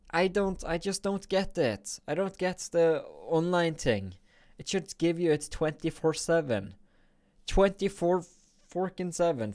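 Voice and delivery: high-pitched, incredulous complaining; exasperated rant. Real, not acted. Streamer griping about the game's online gift, exasperated. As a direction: protest in baffled frustration.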